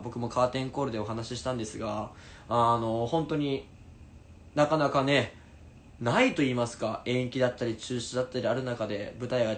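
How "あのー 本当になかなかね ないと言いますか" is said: ordinary talk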